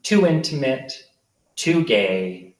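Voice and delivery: measured literary narration with deliberate pauses; memoir reading. A narrator's reading. Author reads childhood memoir about Darren, measured narration. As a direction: read it out to a live audience, phrase by phrase.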